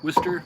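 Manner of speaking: Worcester said as WISS-ter; Worcester clipped to two syllables, WISS-tuh; Worcester, Boston-style, no middle syllable; local Worcester. Shown as a demonstration. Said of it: "That's how they say it over there".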